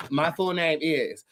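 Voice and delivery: "My full name is," slowly and deliberately. Shown as a demonstration. Vlogger announcing her full title to viewers, slow. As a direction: drag it out for a grand reveal. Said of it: "I'll say it a little slow".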